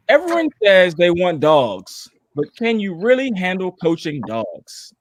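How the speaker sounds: slow, deliberate imitation of a colleague; Dre's voice. Co-host reading a colleague's tweet aloud, slow mock-imitation. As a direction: lightly mimic a friend while reading, drawn out. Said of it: "I'm gonna read it in Dre's voice".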